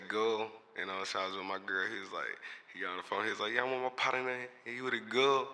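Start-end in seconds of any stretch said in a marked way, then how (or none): 0.1-0.5 put-on "go" for girl, the r dropped; friend's accented girl. Quoting his friend from Alabama, "go" said for girl. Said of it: "When I heard my boy say". 3.5-5.5 imitated Alabama accent. Friend on the phone about partner, imitated Alabama accent. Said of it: "When I heard my boy say".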